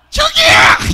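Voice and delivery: pointing him out with a cry; excited cry. Acted. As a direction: yell it like you just spotted him. Spots the pastor in the crowd.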